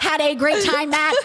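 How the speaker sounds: stiff robotic voice, trying to sound sober; robot voice, drunk pretending sober. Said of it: "I literally started talking like a robot".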